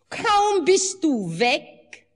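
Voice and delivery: slow, high sobbing words. A narrator's reading. The wife sobs out her story to her husband. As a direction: choke the words out through sobs. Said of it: "sagte sie mit Schluchzen".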